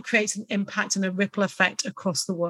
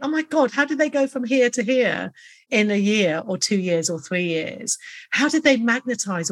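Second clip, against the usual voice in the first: mock amazement; 3 semitones higher than usual. Onlooker wondering at a visionary's rise, amazed. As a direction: marvel as an impressed onlooker would.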